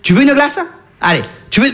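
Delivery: put-on high cooing coax, like tempting a child. Comic coaxing a penguin, high cooing. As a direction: sweet-talk the penguin up high.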